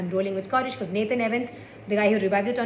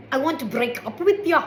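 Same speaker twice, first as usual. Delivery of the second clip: put-on Scottish accent, higher at first; 4 semitones higher than usual. Shown as a demonstration. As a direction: try out the line in a Scottish accent. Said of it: "sound better in that accent".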